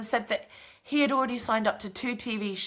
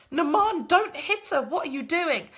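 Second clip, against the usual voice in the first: retold pleading shout; 5 semitones higher than usual. Holding back the housemate from attacking her, urgent shout. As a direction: hold him back with your voice. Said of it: "We've got our arms out".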